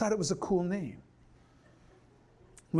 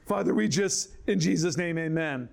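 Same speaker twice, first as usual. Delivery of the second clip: mocking greedy prayer. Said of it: "and then you end it".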